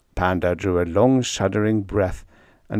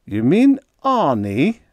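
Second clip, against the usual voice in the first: snicker; 7 semitones higher, 5 dB louder, slower than usual. A narrator's reading. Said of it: "I snickered".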